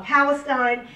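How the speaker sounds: usual speaking voice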